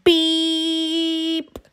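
high, bright toy horn beep; little truck beep. A narrator's reading. Friendly little truck beeping to the farm animals. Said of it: "said Blue".

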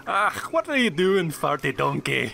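drawn-out ogre outburst; playful ogre put-on voice; Shrek-style ogre. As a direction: bellow slowly like a mock-grumpy ogre. Playing Shrek, addresses a donkey.

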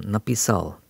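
написал stressed on the final сал; написал, leaning on its last syllable. Shown as a demonstration. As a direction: put the stress at the end of написал. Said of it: "stress is on the last syllable".

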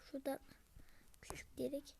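hushed whisper to himself. Real, not acted. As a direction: whisper it under your breath. Whispering while playing alone. (fısıltıyla)

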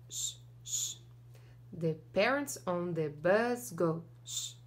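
ordinary delivery

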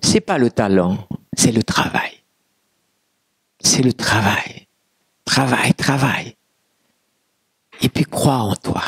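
low, measured advice with long pauses; quoted coach. Retold or imitated. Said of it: "Il m'a dit".

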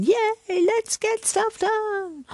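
excited yay. Retold or imitated. Quoting her full-moon energy to viewers, gleeful. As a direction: sing out a bright yay. Contrast with others' complaints.

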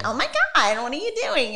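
panicked. Retold or imitated. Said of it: "high and escalated".

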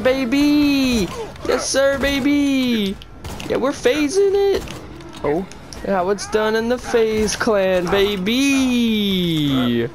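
hammed-up FaZe Clan hype; mock gamer hype. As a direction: bellow "baby!" like a YouTube pro.

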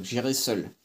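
ordinary delivery

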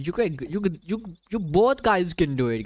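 rally the two players; cheering them on. Real, not acted. Streamer cheering both players on, high slow rallying voice.

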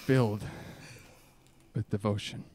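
slow, solemn recital with long pauses; earnest poetry reading, lingering between lines; dramatic poem reading. Acted. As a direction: read it like a heartfelt confession poem.

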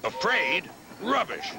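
high, indignant scoff; Gordon. A narrator's reading. Big engine denying he was afraid, indignant high-pitched scoff. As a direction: scoff at the very idea. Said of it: "said Gordon".

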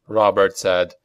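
usual speaking voice

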